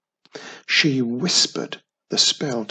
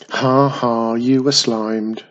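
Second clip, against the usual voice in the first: cackled; 3 semitones lower, 4 dB louder than usual. Acted. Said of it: "a rude voice cackled".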